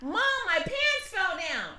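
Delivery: the panicked way he did not say it; mock alarmed version of the son; alarmed child. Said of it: "He wasn't like".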